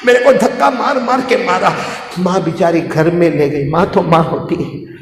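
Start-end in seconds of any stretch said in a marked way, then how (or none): 0.1-1.7 put-on crying child. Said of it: "बेटा बहुत रोया".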